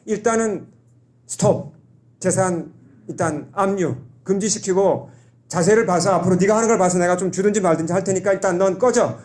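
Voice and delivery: mock-stern father telling him to get lost; rough angry father. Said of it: "아버지도 거칠게 나오죠".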